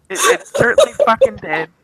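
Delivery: high, emphatic agreement. Real, not acted. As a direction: really lean into it.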